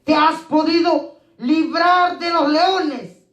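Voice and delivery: slow, grieving call into the lions' den; a king calling down into the pit, slow and sorrowful; mournful call. Acted. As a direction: call out slowly, heavy with sorrow. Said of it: "con voz triste".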